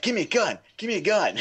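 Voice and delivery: lightly mocked pleading kid; begging kid. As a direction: nag for the gun like a scared boy. Scared kid demanding a gun.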